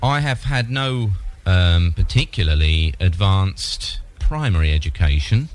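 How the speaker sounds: put-on dim old man voice. Prank caller plays a dim old man.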